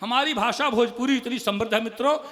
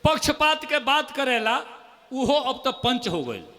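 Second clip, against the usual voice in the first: poem recital. Acted. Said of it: "दो मुक्तक और सुन लीजिए".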